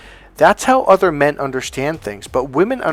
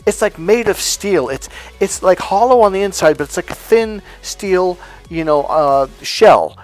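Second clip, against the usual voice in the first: tag; 4 semitones higher than usual. Acted. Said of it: "here's how a woman expresses her emotions".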